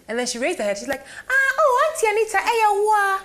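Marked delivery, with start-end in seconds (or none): 1.3-3.2 much higher, louder excited squeal of recognition; delighted shocked fan greeting Auntie Anita; surprised recognition. Retold or imitated. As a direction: imitate a fan suddenly spotting a celebrity, pitched way up. Woman recognizing her, excited greeting.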